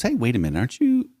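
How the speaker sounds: put-on accusing servant girl. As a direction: catch him out, pointing. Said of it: "She goes".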